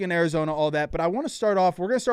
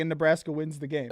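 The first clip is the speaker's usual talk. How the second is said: ordinary talk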